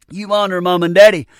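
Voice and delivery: emphatic pulpit declaration; preaching emphasis. Real, not acted. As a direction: hammer it to the congregation. Preacher driving the point home.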